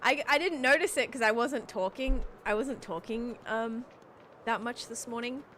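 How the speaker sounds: stuffy nose, blocked nasal voice; congested. Real, not acted. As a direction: talk through a stuffed-up nose. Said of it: "I am so congested".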